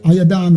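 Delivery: Ayadan said slowly as ah-yah-DAHN, each syllable clear; original-tongue word. Shown as a demonstration. Teacher giving listeners the original name, careful pronunciation of Ayadan. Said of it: "In the original Habariya tongue is called Ayadan".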